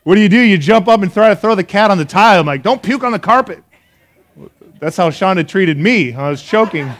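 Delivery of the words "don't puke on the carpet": mock scolding. Yelling at retching cat.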